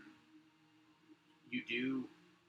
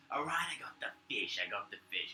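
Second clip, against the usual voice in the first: third guard voice; 2 semitones higher than usual. Acted. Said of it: "the third voice ... goes".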